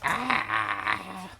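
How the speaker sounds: sudden loud high ah; a real startled ah, loud and high; startled yelp. Real, not acted. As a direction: jump at something gross. Startled cry at dish.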